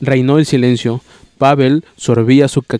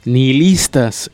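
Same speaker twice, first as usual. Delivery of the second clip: "Nihilistas" spelled out slowly, each syllable clear; slowly vocalize every syllable of "Nihilistas"; carefully vocalized; slower than usual. A narrator's reading. Arkady repeats the word slowly for his uncle. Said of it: "exclamó vocalizando Arkady".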